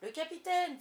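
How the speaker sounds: high, loud startled exclamation; astonished. A narrator's reading. Pirates hearing their captain's voice, astonished. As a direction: exclaim it in sudden surprise. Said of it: "firent les pirates en se regardant l'un l'autre d'un œil étonné".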